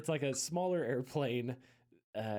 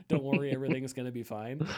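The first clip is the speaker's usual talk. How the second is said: quick pilot reassurance; 5 dB louder, faster than usual. Retold or imitated. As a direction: rush a soothing captain line. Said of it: "bailed out".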